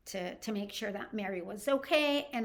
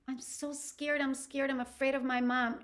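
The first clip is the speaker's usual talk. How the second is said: lightly acted fear in a higher pitch; scared; 5 semitones higher than usual. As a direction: imitate a frightened, pleading confession. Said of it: "she was afraid of her mom".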